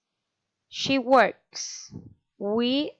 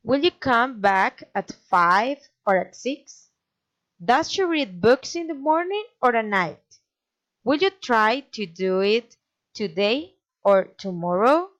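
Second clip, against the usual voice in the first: alternative questions rising on the first choice, as in FIVE; either-or tune, up on the first option, down on the last; rise then fall. Shown as a demonstration. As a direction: climb at MORNING, then drop at NIGHT. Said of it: "raising and falling intonation".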